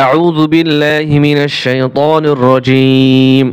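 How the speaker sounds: slow chanted recitation, lengthened vowels; Quran recitation. Shown as a demonstration. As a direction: intone it slowly like tilawat. Recites the ta'awwudh.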